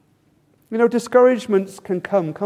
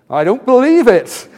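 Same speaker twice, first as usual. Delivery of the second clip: mock-incredulous catchphrase, pushed up a little; Victor Meldrew; 3 semitones higher, 4 dB louder than usual. Preacher quoting a TV catchphrase to his congregation, mock disbelief. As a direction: exclaim it like an exasperated sitcom catchphrase. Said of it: "you probably remember his catchphrase".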